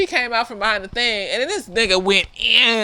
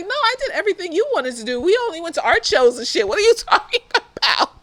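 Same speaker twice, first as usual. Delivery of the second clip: upset confused; 3 semitones higher, faster than usual. Retold or imitated. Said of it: "she just standing over here like".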